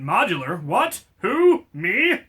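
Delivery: mock surprise.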